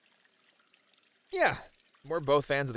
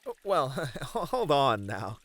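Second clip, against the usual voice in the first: slow, laughing protest; 2 semitones higher, 4 dB louder, slower than usual. Real, not acted. To the guest pushing for backstage access, laughing. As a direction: chuckle through it, caught off guard.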